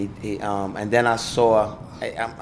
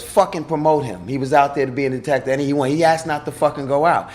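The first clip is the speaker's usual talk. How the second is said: retold outburst; 5 semitones higher, 4 dB louder than usual. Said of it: "She goes".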